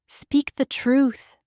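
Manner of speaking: slow and gentle; soft. A narrator's reading. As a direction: say it softly, slowly. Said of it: "she says softly".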